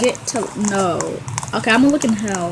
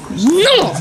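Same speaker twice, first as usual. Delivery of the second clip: high outburst of protest; frustrated yell; 8 semitones higher, 4 dB louder than usual. Real, not acted. Player upset at the game, frustrated yell.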